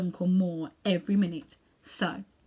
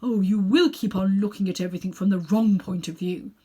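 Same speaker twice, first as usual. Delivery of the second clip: impatient; 7 dB louder than usual. Acted. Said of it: "with a look of impatience".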